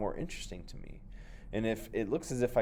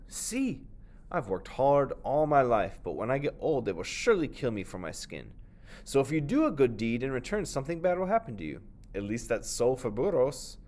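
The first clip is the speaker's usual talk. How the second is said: lightly voiced donkey; 4 semitones higher, 3 dB louder than usual. The donkey explaining the proverb, a touch higher. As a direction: tell it as a tired old donkey.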